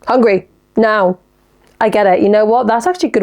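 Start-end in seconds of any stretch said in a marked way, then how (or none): 0.0-1.2 caveman talk. Retold or imitated. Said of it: "you just say one word".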